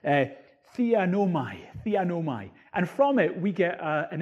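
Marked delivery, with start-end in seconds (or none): 0.8-2.5 careful Greek pronunciation of "theanomai"; attempted Greek accent. Shown as a demonstration. Preacher showing the original word, attempted Greek accent. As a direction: try "theanomai" in modest Greek. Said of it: "I won't do it in a very good Greek accent".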